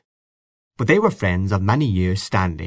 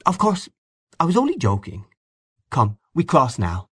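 soft and friendly; 6 semitones higher than usual. A narrator's reading. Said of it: "in a soft, friendly tone".

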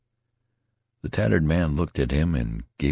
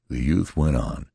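usual speaking voice

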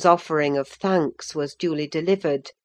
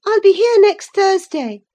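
called out high and loud; cried out; 10 dB louder than usual. A narrator's reading. Cathy calling to Linton from the saddle, high and loud. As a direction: call it back as she leaves. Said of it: "she cried".

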